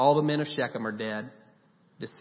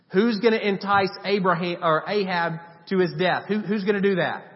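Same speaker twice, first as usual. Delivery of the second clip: voice of God; 5 semitones higher, 5 dB louder than usual. Retold or imitated. God voiced in heavenly council.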